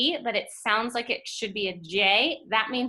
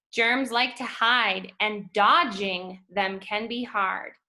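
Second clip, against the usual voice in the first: slow poem reading; slower than usual. Acted. Rereads poem lines slowly.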